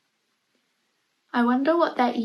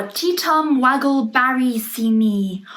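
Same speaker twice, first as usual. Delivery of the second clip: magic words; 4 dB louder than usual. Acted. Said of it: "said some magic words".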